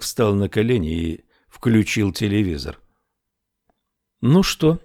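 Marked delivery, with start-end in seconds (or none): 4.2-4.8 put-on light Irish accent, higher pitch; chatty barmaid with an Irish lilt. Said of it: "с заметным ирландским акцентом".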